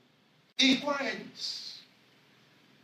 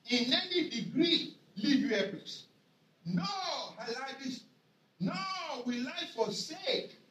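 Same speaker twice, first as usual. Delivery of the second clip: emphatic scripture reading. Acted.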